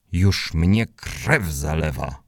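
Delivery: slow, exasperated father's cry; exasperated dad. Acted. Dad cries out as the bike nearly tips, slow and exasperated. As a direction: drag it out like a fed-up dad. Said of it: "krzyknął tata".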